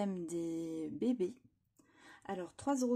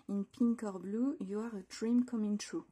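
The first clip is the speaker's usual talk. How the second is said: English with a French accent; French-accented English, read out carefully. Real, not acted. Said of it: "excusez-moi pour mon accent".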